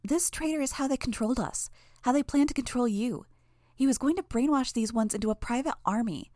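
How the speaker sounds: high mocking relay of a rant; giggly sneering imp. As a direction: sneer the mob leader's words, pitched high.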